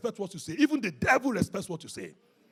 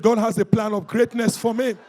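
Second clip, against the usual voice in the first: preacher leading a confession like he means it; like you mean it; 10 dB louder than usual. Shown as a demonstration. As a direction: declare it with conviction. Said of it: "Say it like you mean it".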